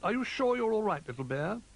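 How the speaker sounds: high-pitched fussing owl; worried owl character; concerned owl. A narrator's reading. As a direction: ask after the little one in a high voice.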